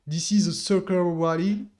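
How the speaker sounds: put-on English line in a French accent; self-mocked English accent. Trader quoting doubters in English, self-mocked French accent. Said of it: "Avec mon super accent".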